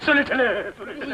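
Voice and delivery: mild wailing confession; tearful. Acted. Man confessing his lie to her, tearful. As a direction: wail it helplessly, as if crying. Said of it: "எதுக்காக அழுறீங்க இப்போ?".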